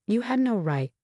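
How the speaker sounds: high, tight words through clenched teeth; through gritted teeth. A narrator's reading. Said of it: "I said through gritted teeth".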